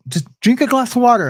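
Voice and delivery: lightly voiced cellmate telling him what to do; imitating the older cellmate's calm command; cellmate's advice. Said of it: "He's like".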